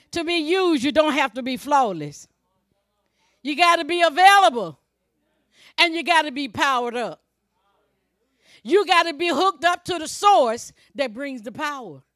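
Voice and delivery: punchy, forceful pulpit exhortation; emphatic preaching. Real, not acted. Preacher telling believers to be available, emphatic preaching. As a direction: hammer each requirement home.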